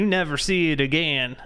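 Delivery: Southern redneck accent, copied line. Shown as a demonstration. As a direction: mimic the clip's Southern voice. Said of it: "a redneck accent can be hard".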